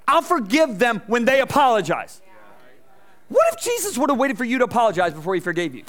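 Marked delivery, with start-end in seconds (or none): 0.1-2.2 mock grudging Christian. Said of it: "Christians and they go".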